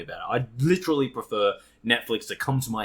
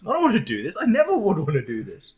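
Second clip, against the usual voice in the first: high-pitched, loud, hammed-up outburst; mock furious rant; 12 semitones higher, 6 dB louder than usual. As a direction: yell in comic despair at yourself. Acting future self hating the plan.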